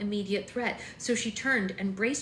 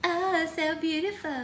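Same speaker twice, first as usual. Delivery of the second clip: high, gushing coo; cooing admiration; 9 semitones higher than usual. Real, not acted. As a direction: coo it up high, as to a little one. Cooing over the child mid-chat.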